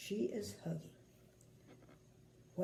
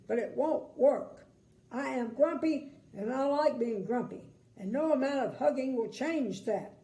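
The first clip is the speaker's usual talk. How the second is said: grumpy man voice; 4 semitones higher, 5 dB louder than usual. Acted.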